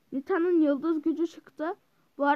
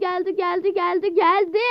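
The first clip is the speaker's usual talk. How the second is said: rising, louder cheering; excited cheer; 3 semitones higher, 7 dB louder than usual. Real, not acted. Gamer cheering teammate's hit, excited.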